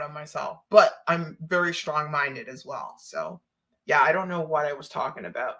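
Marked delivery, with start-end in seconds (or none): none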